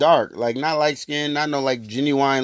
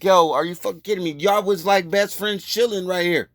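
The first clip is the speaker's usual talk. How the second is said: disbelief; 5 semitones higher than usual. Retold or imitated. Disbelief at bystanders' denial.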